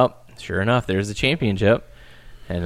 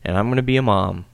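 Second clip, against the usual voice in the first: Becky reassuring; 3 semitones higher than usual. Retold or imitated. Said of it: "It's like".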